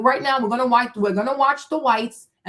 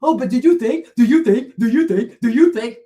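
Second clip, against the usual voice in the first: loud, nagging mock voice repeating the question; hammed-up whiny question, hammered over and over; mocking questioner; 6 dB louder than usual. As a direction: parody a pestering commenter, loudly. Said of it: "And you still write stupid questions".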